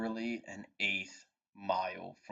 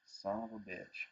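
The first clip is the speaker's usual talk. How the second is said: mock dismay; 7 dB quieter than usual. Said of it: "and go".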